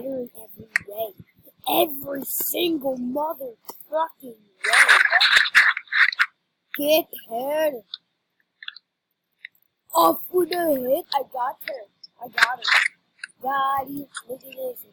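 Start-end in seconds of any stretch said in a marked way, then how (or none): 1.7-5.0 emphatic. Real, not acted. Emphatic outburst about game. 6.8-14.1 excited callout. Real, not acted. Calling out game action.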